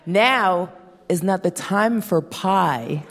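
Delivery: good mom voice. Retold or imitated. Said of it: "What would a good mom say".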